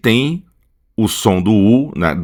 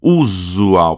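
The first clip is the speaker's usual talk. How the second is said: "usual" as OO-zoo-ow with the first U held; stronger first U. Shown as a demonstration. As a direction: lean on the opening U of "usual". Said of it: "esse primeiro aqui que é mais forte".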